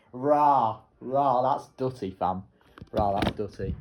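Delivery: loud slang hype cheer; big excited cheer at the screen; celebrating first place, loudly hyped; hype exclamation. Real, not acted.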